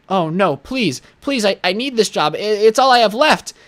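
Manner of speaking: high, mock-desperate begging; fake pleading. Feigned begging after fake firing.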